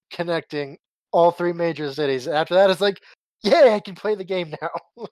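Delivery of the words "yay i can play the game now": higher-pitched little cheer; lightly acted celebration; mock delight. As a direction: play up the relief of finally being free. Voicing his delight when finished.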